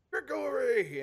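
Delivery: loud, high, happy cry of a name; joyful shout. Acted.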